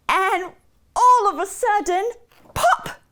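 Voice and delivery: high, punchy storyteller's reveal; dramatic, excited story peak; sudden climax. A narrator's reading. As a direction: build suspense, then burst on "pop". Story climax, turnip pops out.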